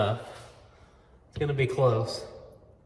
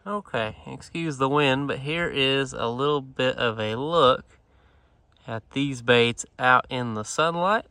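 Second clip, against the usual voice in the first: wind on mic. Real, not acted. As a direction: wind gusting across the mic. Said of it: "you will have to excuse the wind noise".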